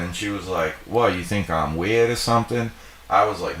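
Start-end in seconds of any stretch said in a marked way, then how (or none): 0.9-2.7 lightly mimicked Southern woman, higher pitched; Southern accent imitation. Gas station woman challenging him, imitated Southern accent. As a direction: lift it into a mild Southern twang. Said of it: "that's a fucking hot-ass accent".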